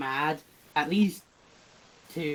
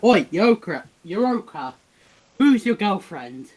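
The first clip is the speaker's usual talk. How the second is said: raised-voice taunting call; acted yell; 4 semitones higher, 4 dB louder than usual. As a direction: call them out, a bit louder and higher. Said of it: "So he yells at them".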